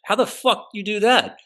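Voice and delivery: high, stunned disbelief; incredulous. Retold or imitated. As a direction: squeak it out in shock. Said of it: "I'm like".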